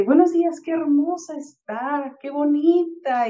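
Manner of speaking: butter her up like a grinning vendor at a car window; flattering street vendor. Retold or imitated. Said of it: "Y ya me dice".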